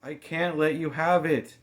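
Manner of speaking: high, loud, frustrated refusal; girl refusing in frustration; breathless frustration. A narrator's reading. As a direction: refuse through strained breath. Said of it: "in breathless frustration".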